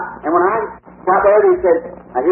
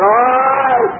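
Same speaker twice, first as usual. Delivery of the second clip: retold exclamation; 4 semitones higher, 3 dB louder than usual. Recognizes the boy from vision.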